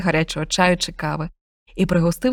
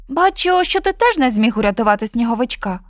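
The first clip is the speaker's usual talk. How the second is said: sad cat; 2 semitones higher than usual. Acted. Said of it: "засмучено нявкнув кіт".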